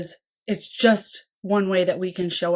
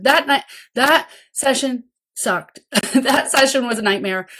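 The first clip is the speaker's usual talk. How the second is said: rueful laugh; 3 semitones higher, 3 dB louder than usual. Retold or imitated. Caregiver venting in the car after a rough session, laughing. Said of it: "and you said".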